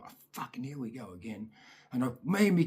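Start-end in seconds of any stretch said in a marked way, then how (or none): 0.0-1.5 fed-up mutter. Retold or imitated. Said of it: "I'm like".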